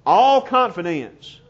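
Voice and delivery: slow, deliberate weight on "all"; underlined emphasis. Real, not acted. Preacher underlining a phrase in the verse, stress on "all". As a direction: set "all" apart and stretch it. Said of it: "underline it".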